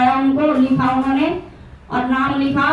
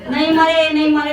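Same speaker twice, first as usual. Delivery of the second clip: louder, laughing mock wail of a widow; 3 dB louder than usual. Village women mimicking the grieving wife, mocking louder wail. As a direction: parrot the widow's cry as a joke. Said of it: "वो सब ऐसे ही बोलती हैं".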